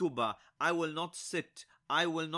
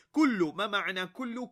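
calling out question; 4 semitones higher, 6 dB louder, much faster than usual. Real, not acted. Teacher quizzing class.

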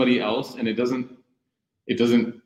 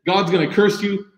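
mock condemnation; 9 semitones higher than usual. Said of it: "could have been like".

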